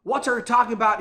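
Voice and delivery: imitated irritated retort; retold anger. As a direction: act out someone getting mad at a correction. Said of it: "he got mad".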